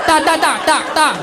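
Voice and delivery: high-pitched rapid-fire mock refusal; Zelensky. Zelensky answering back to Trump, high mocking impersonation. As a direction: repeat it high, like a pestering heckler. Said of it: "I wish Zelensky said that to Trump".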